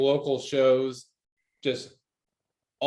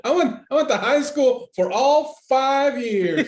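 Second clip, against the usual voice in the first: laughing; 12 semitones higher, 6 dB louder than usual. Pretend. Mock boast, laughing.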